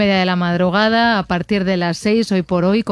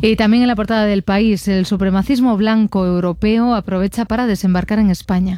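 brisk, even headline read; news read. Acted. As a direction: read it as a radio press review. Reads press review headlines.

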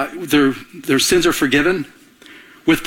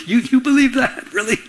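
higher, incredulous mock of a scoffer; mocking disbelief; 9 semitones higher than usual. Scoffing friend mocks a believer, incredulous. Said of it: "And they mock us".

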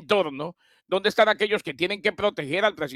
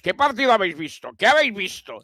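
Spanish coach; 3 semitones higher than usual. Retold or imitated. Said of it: "técnico español".

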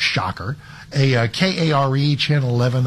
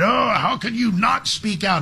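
mocking; 8 semitones higher than usual. Mocking critics of Caitlin Clark.

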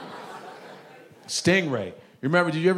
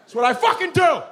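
high whale shout; 12 semitones higher than usual. Pretend. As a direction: scream it out like a free whale.

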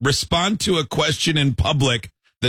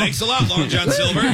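pirate voice; 8 semitones higher than usual. Pretend. Pirate joke voice, high.

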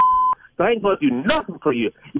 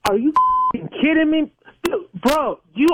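exasperated disbelief; 8 semitones higher than usual. Real, not acted. Victim hears blackmail demand.

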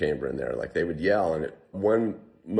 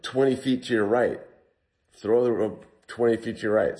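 mild mock yell, pitched higher; retold yell; 4 semitones higher, 3 dB louder than usual. Trapped climber calling up to rescuers, mild retold yell. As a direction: call it up to someone above, without full volume. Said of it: "I'm yelling up to the guys".

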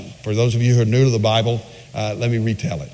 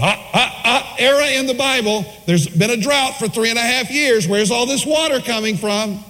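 mocking skeptic; 10 semitones higher than usual. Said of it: "people who question the Bible said".

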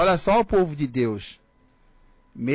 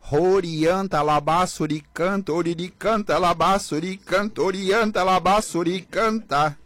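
falando em línguas. Retold or imitated. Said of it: "eu acordei bem assim, ó".

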